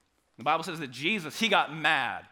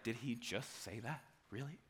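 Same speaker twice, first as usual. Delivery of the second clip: stunned disbelief; 6 semitones lower, 14 dB quieter than usual. Pretend. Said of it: "everyone's like".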